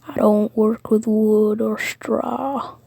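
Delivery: slow Texan drawl; lightly put-on, unhurried Texan voice; Texan accent. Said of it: "made Andre Texan".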